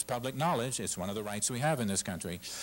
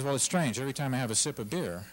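louder, quicker agitated telling; worked-up explanation; 3 semitones higher, 4 dB louder than usual. Retold or imitated. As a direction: spill it out, rattled. Patron explains voices to bartender.

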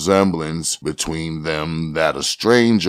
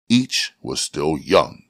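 ordinary delivery, nothing marked

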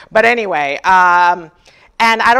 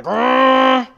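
motor growl; 2 semitones higher than usual. Retold or imitated. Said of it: "It's like a motorbike".

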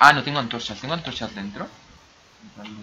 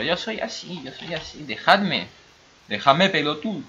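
higher-pitched mock Argentine whine; hammed-up Argentine accent; 7 semitones higher than usual. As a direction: plead playfully in a put-on Argentine accent. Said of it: "Me encanta el acento argentino".

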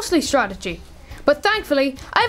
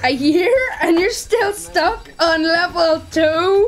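slow, drawn-out incredulous jeer; scornful disbelief; 2 semitones higher, slower than usual. Acted. Gamer kid jeering at a stuck player, scornful disbelief. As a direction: rub it in with laughing disbelief.

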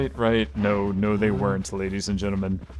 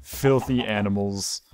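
mock insult; slower than usual. Scolding cows, mock insult.

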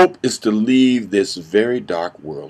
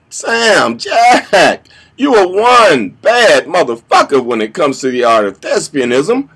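lightly voiced fan, pitched up on the names; imagined admiring fan; 5 semitones higher than usual. Fans answering his news of quitting acting, lightly mimicked. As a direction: protest like a devoted fan, starting high. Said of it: "I know what you're thinking".

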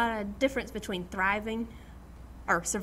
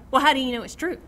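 skeptical question; 3 semitones higher, 7 dB louder, faster than usual. Retold or imitated. Voicing skeptical people.

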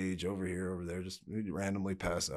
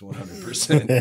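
louder, punching every word; emphatic loud; 2 semitones higher, 10 dB louder than usual. Real, not acted. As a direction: insist on it loudly. Emphatic repeat of own claim.

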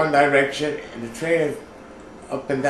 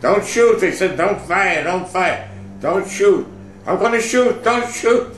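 high, loud frantic orders; retold shouting; 6 semitones higher, 4 dB louder than usual. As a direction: shout over the guns. Shouted orders during attack.

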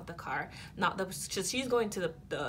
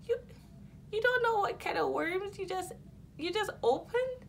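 shrill, heated warning; high furious threat; 13 semitones higher than usual. Retold or imitated. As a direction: hurl it back, voice pitched up. Her angry retort to the insult.

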